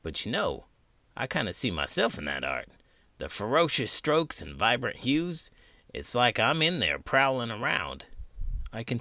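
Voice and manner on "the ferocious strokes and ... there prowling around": prowling creature character. Acted. Character describes prowling in art.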